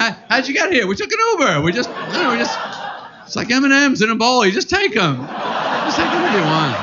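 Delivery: high, breezy quoted voice; quoted friend. Retold or imitated. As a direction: lightly play a carefree Uber rider. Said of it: "quoted exchange about Uber".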